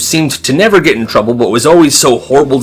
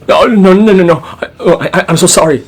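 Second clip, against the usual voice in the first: panicked pleading; 4 semitones higher, 4 dB louder, faster than usual. Retold or imitated. Terrified kid begging the teacher.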